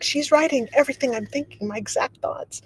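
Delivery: high-pitched imitation of a rattled coworker; freaked out. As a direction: report it high, as if spooked. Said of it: "freaked out".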